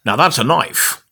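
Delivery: badly faked Australian accent; Paul Hogan. Host quoting Crocodile Dundee, shaky Australian accent. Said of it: "Paul Hogan from, uh, Crocodile Dundee".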